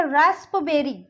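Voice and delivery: रास्पबेरी said with the P sounded; रास्पबेरी as rasp-berry; mispronunciation demo. Shown as a demonstration. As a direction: wrongly voice the P in रास्पबेरी. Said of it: "हम इसको ऐसे पढ़ेंगे".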